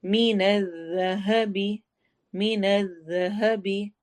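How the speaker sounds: मिनज़ ज़हबी slow, ज़ soft and blended; slow soft recitation; soft dhal. Shown as a demonstration. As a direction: soften the ज़ in ज़हबी. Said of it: "ज़ाल को नरमी से पढ़ना है".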